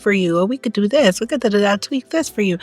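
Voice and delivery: hinting at a too-eager beautician upselling; pushy facial staff. Retold or imitated. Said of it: "they're always trying to encourage you".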